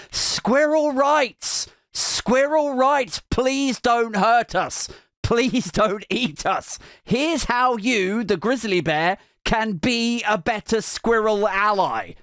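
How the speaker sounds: high, slow squirrel chant; mock squirrel protesters.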